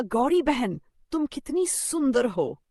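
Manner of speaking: high, loud sugary crow; flattering crow. Acted.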